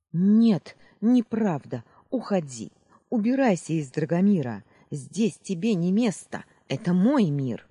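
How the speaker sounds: high, loud desperate command; shouting. Acted. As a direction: yell at her to leave. Heroine drives villain away.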